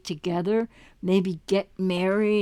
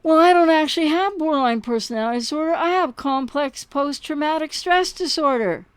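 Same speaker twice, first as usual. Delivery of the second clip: imitating the ex's excuse; 4 semitones higher than usual. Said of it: "a line like this".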